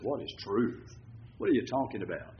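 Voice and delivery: a dry, sarcastic Pilate asking what is truth; lightly voiced sarcastic governor. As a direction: toss it off with mild scorn. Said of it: "being very sarcastic when he said".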